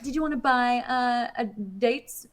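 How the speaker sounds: high imitation, slowing into confusion; voice assistant. Voice assistant misunderstanding and offering to sell something, mock-helpful. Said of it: "And it's like".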